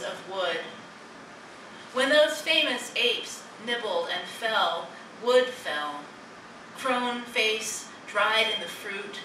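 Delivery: slow, spacious poem recital; poetry reading. Acted. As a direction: linger on each image, pausing between short phrases. Reads own poem aloud.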